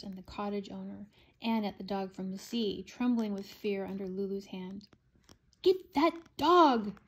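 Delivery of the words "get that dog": slow loud high shout; slow furious shout. A narrator's reading. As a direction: yell the order slowly. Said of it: "shouted the wicked witch".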